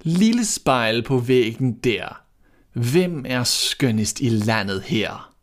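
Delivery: slow, chanted rhyme; queen's incantation. A narrator's reading. Queen asking her mirror, slow chanted rhyme. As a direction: intone it slowly like a spell. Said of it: "gik hun hen foran spejlet og spurgte".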